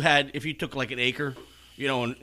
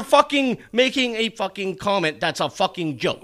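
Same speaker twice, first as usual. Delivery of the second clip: angry rant; 4 semitones higher than usual. Real, not acted. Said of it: "You're interrupting my rant".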